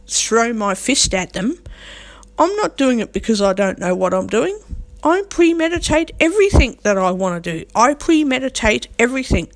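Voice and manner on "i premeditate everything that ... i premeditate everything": higher-pitched, defiant assertion; emphatic insistence. Real, not acted. Speaker defends their anger as planned, emphatic insistence.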